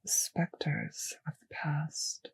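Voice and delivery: soft, slow whisper; a slow, hushed musing whisper. Acted. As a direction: let it hang in the air, whispered. Vampire musing to pet.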